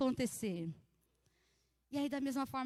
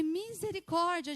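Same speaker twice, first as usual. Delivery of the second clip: louder, higher, drawn-out mock cry for mercy; alarmed exclamation; 4 semitones higher, 5 dB louder, slower than usual. Mother retells her reaction to turbulence, alarmed exclamation. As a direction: re-enact a startled plea to heaven.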